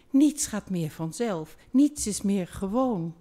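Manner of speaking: lightly pleaded down the phone; a hint of a remorseful lover begging; mild pleading. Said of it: "smeekte door de telefoon".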